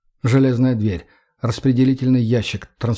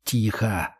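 hushing hiss; 2 semitones lower, 6 dB quieter than usual. A narrator's reading. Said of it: "цыкнул я".

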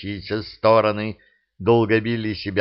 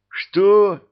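high, loud startled what; 11 semitones higher, 6 dB louder than usual. A narrator's reading. Alyosha startled that Monya roamed the castle, loud high cry. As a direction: jump at the news.

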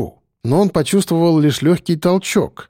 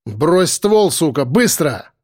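sharp command; slower than usual. Acted. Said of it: "резкий голос".

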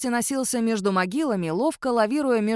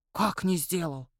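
возмущённо; 4 semitones lower, 4 dB quieter than usual. A narrator's reading. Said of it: "возмутился Ионуц".

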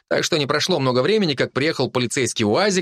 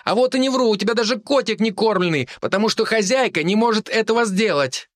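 put-on defiant girl; 9 semitones higher than usual. A narrator's reading. Girl argues with the drunk man, high defiant. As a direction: argue back boldly.

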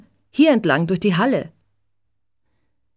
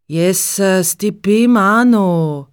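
grumbling cabbie; 5 dB louder, slower than usual. Acted. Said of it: "schimpft der Taxifahrer vor sich hin".

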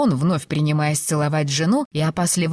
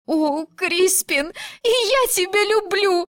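high, slow, weeping declaration; wife sobs her love to her husband; sobbing; 13 semitones higher, slower than usual. A narrator's reading. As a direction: cry it out through happy tears. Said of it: "прорыдала Филиппа".

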